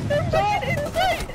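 excited yelling. Real, not acted. Enemies found inside.

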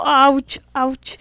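brother wincing. Retold or imitated. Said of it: "mi hermano dijo".

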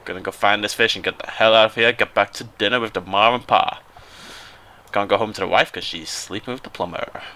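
a hint of folksy American; lightly put-on American character; slightly American accent. Player in character about getting home, slight American accent. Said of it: "Going a little bit American".

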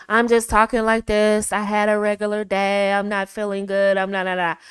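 dull, lifeless mock complaint; boring flat delivery. Shown as a demonstration. Friend showing how not to talk, bored and flat. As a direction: drone it out with no energy. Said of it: "Boring, boring, boring".

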